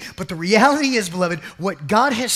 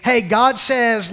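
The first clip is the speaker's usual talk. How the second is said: mock announcing; 2 semitones higher, 6 dB louder, slower than usual. Mock quote of Moses to Pharaoh.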